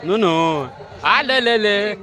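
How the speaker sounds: high, loud coaxing call to an animal; sing-song call, coaxing the calf close. Real, not acted. Woman calling her calf over, high coaxing call.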